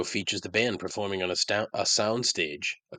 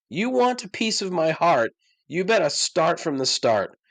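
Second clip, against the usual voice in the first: louder and higher mock recital of the lyric; 8 semitones higher, 5 dB louder than usual. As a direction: belt it out to mock it. Quotes the lyric again, worked up.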